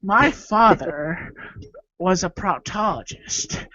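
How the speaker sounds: lightly voiced slow villain; a hint of theatrical menace, stretched out; Joker parody. Starting a parody of the Joker's father story, slow villain delivery. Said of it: "Joker colonoscopy".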